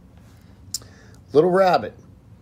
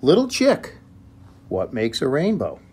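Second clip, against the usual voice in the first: Little Rabbit calling; 4 semitones higher, 9 dB louder than usual. Acted. Little Rabbit calls Little Chick.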